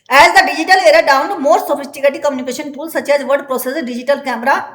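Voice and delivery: slow, deliberate dictation pace; teacher dictating from the book; slow textbook reading. Acted. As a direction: read it out word by word for the class. Reads textbook English aloud slowly.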